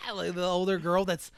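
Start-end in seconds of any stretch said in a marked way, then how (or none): 0.1-0.1 imitated girl's cry. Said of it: "the one girl's like".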